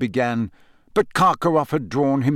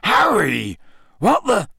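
louder, rising to a high alarmed break; startled Hagrid; 7 semitones higher, 4 dB louder, slower than usual. A narrator's reading. Hagrid spotting Harry in the forest, startled and louder. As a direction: caught off guard mid-sentence. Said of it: "his eyes widening".

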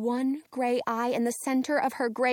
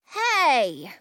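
defensive; 4 dB louder than usual. Acted. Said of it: "I say defensively".

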